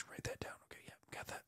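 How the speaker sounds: whispered note to self; soft whispered self-talk; muttered aside. Real, not acted. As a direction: breathe it under your voice while writing.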